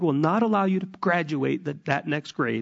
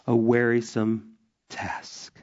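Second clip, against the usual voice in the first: whisper; 5 semitones lower, slower than usual. Acted. Whispered aside in scripture reading.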